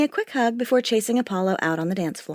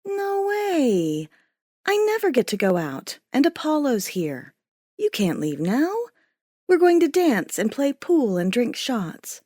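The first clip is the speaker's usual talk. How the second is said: high protesting friend; 4 semitones higher than usual. Acted.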